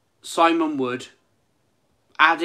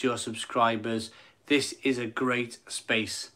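softer, lower, barely holding it together; emotional; 5 semitones lower, 5 dB quieter than usual. Real, not acted. Streamer reading a viewer's message aloud, softly emotional. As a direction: read the kind message while moved. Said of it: "making me even more emotional".

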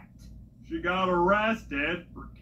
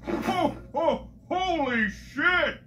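Santa voice; 6 semitones higher than usual. Acted. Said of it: "he said".

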